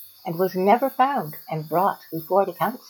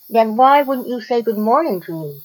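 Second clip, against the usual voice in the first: higher-pitched, demanding question; 5 semitones higher, 4 dB louder than usual. A narrator's reading. Python confronting the iguana before the council, demanding. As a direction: demand an answer like an offended snake. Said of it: "demanded the snake".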